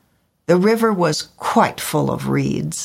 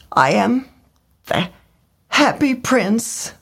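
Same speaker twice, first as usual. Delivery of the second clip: prince's voice; 7 semitones higher than usual. A narrator's reading. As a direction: announce yourself sadly. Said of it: "he said".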